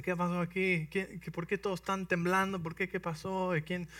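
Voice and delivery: a hint of young David wondering; curious boy David. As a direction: ask around like a confused boy. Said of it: "David arrives asking questions".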